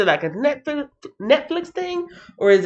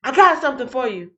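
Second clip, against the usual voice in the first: calming Saul; 10 semitones higher than usual. Retold or imitated. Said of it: "he's like".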